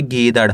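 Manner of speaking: गीदड़ ending in a flapped ड़; गीदड़, final ड़ as a flap, not a hard ड; flapped ड़ sound. Shown as a demonstration. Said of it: "अड़ा का उच्चारण निकालेंगे".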